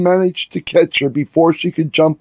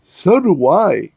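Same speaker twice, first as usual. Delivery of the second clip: glum agreement; 4 semitones higher than usual. Acted. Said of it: "Lorenzo agreed".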